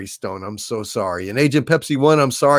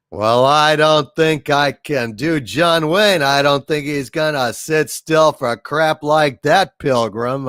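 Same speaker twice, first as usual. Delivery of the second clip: John Wayne voice. Retold or imitated. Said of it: "Can you do John Wayne?".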